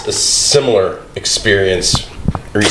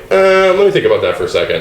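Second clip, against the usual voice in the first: human-sounding AI caller; 10 semitones higher than usual. Retold or imitated. AI booking a restaurant table by phone, fake-human hesitancy. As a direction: imitate an AI faking human hesitation. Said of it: "just to make it sound more human".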